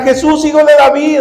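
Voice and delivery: acted-out calling with moderate force; mild retold cry. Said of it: "le volvió a gritar".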